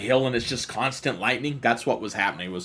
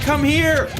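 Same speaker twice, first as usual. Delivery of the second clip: impatient mom; 13 semitones higher, 5 dB louder than usual. Retold or imitated. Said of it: "She's like".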